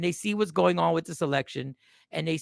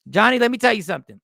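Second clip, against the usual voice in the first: emphatic; 5 dB louder, faster than usual. Real, not acted.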